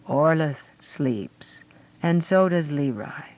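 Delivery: slow and gentle. Acted. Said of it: "Then she added gently".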